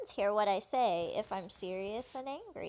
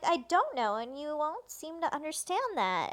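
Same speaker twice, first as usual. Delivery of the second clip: exclaimed retort; 6 semitones higher than usual. Retold or imitated. Woman answers the twins who ask if she knows them, exclaimed. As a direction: raise pitch and volume in retelling the retort. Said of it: "exclamation mark".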